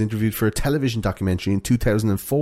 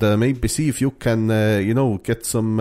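hesitant mock Finnish accent. Host playing Finnish teens to co-host, hesitant Finnish accent. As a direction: feel for the words in a Finnish accent. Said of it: "That's a pretty good Finnish accent".

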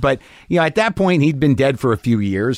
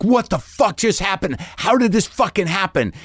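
higher-pitched retold scream at ordinary volume; mock scream; 6 semitones higher than usual. Comic at home after the producer's refusal, mock screaming. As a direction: imitate screaming in disbelief, without really shouting. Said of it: "I'm screaming".

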